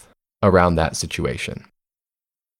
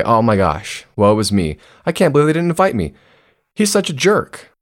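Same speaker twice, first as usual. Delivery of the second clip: victim role; 3 semitones higher than usual. Retold or imitated. A hammed-up victim complaining to themselves about coworkers. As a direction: play the wounded victim. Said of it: "You go into the victim role".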